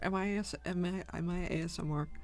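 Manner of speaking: sleepy, heavy groggy voice. Real, not acted. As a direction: talk like you just woke with a headache. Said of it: "my groggy headache voice".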